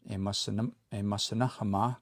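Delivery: imasinahamak with a long last "a" and audible K; longer A, clearer K. Shown as a demonstration. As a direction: draw out "ma", then close imasinahamak on K. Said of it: "the A is longer".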